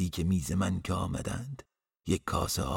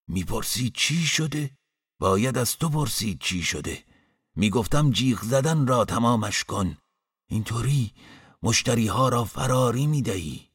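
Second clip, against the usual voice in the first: loud, raised-pitch irritated telling-off; grumbling scolding; 4 semitones higher, 6 dB louder than usual. A narrator's reading. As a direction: scold indignantly at full voice. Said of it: "غر و لند کنان گفت". (غرولند با صدای بلند و عصبانی)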